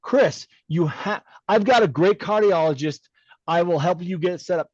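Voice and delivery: lightly imitated New York accent; a friend's insistent urging in a hint of New York. Friend urging him to see a cardiologist, lightly imitated New York accent. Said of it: "In his New York accent, he would say".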